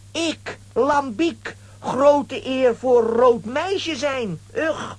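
slow, drawn-out mock solemn announcement; pompous broken speech. Lambiek solemnly declaring himself an honour for the girl, slow and pompous. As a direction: puff yourself up grandly.

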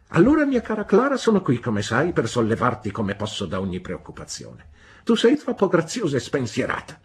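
high, fast, sugary condescension; falsely sweet spinster. A narrator's reading. Spinster patronizing the young wife, high and sugary. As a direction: coo it with mock affection, looking down.

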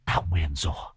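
put-on high eerie possessed child voice; shrill shriek. A narrator's reading. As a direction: hiss the curse in a shrill, ghostly voice. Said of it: "thằng Sình rít lên the thé".

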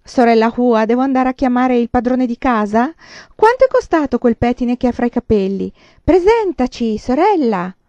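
high, loud, insistent questions; clamouring neighbours. A narrator's reading. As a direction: fire questions out loudly over each other. (vicine vocianti, voce alta e forte)

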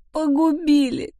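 the repeated «Погубили» cried aloud, slow and high; anguished wail. A narrator's reading. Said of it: "причитала она".

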